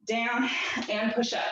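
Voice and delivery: blocked nose, nasal and congested; talking through a stuffy nose. Real, not acted. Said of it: "Sorry about my nose. I sound gross today".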